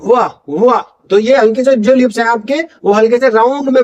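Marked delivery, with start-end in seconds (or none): 0.1-0.8 "वाह" opening from rounded lips; W sound. Shown as a demonstration. Teacher demonstrating the W sound, lip-rounded "वाह". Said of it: "वाह sound".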